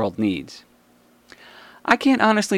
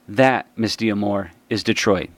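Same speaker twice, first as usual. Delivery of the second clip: slow pointed retort; 3 semitones lower than usual. Real, not acted. Closing retort to playwright.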